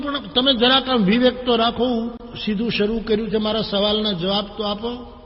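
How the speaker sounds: high, loud indignant complaint to the god; angry scolding. Retold or imitated. Devotee scolds the god angrily.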